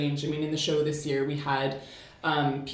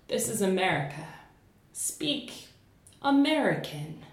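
pointed mock command; 5 semitones higher than usual. America tells those who don't speak like us, pointed mock command. Poem voices America's demand to outsiders.

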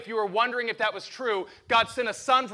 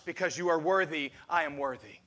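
quiet affirmation; 4 semitones lower than usual. Shown as a demonstration. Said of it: "hand on your heart".

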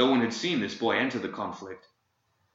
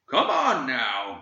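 with impatience; 3 semitones higher, 4 dB louder, much slower than usual. Acted. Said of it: "with impatience".

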